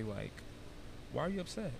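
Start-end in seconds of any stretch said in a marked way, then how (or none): 1.1-1.7 put-on softer, higher voice for an upset child; talking to child. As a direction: come gently down to a child's level. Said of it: "come down to their level".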